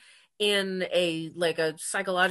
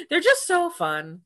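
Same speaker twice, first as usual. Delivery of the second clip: laughing; 10 semitones higher, 4 dB louder than usual. Real, not acted. Laughing while agreeing.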